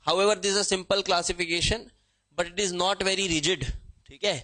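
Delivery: slowly reads the book's English sentence; dictating from the book at a crawl; slow textbook reading. Shown as a demonstration. (किताब की पंक्ति धीरे पढ़ना)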